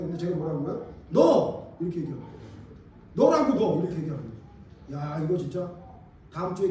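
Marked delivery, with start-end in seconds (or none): 1.1-1.8 loud, high one-word outburst; retold accusing shout. Retelling his shouted accusation. 3.1-3.8 raised voice, pointed and high; retold insistent accusation. Retelling his repeated accusation.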